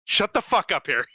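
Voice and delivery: delighted high-pitched shut up; amused outburst. Real, not acted. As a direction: crack up at the friend's joke. Reacting to friend's Nicolas Cage joke.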